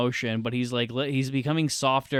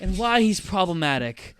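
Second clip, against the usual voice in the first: mock video-essay intro, pitched up; video essayist; 5 semitones higher than usual. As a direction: deliver it as a parody essay title. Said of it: "So in this video essay".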